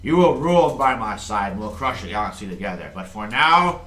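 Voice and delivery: booming, slow imperial ultimatum; villain king. Acted. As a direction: talk down to your son like a tyrant. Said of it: "he's like".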